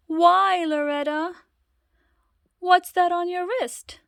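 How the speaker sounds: high, loud startled question; surprised mother. Acted. Mother startled by the ticket on Loretta's wrist, high and loud. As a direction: gasp at the wrist.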